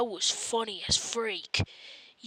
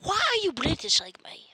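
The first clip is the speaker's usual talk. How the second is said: high, whispered teasing question; playful high whisper; 9 semitones higher than usual. Pretend. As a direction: tease in a squeaky whisper. Mocking question.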